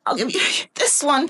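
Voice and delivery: high, broken-up mock sobbing delivery; dramatic Esther. Preacher as Esther naming Haman to the king, mock dramatic. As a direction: ham up a tearful accusation. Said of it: "I'm making it dramatic".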